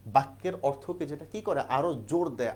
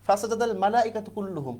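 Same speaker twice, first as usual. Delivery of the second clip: কুল্লুহুম lifted and pressed, higher than the rest; stress on কুল্লুহুম; 6 semitones higher, 4 dB louder than usual. Shown as a demonstration. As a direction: lean on the word কুল্লুহুম as the point of emphasis. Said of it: "কুল্লুহুম দিয়ে জোর দিলেন".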